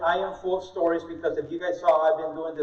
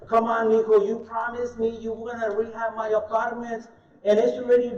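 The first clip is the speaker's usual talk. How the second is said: imitating his dad; 4 semitones higher than usual. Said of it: "When he called me back".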